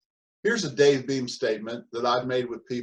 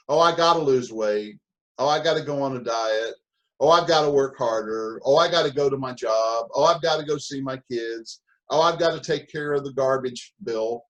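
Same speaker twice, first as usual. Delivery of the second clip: mock complaining; 4 dB louder than usual. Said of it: "mock complaining about chores".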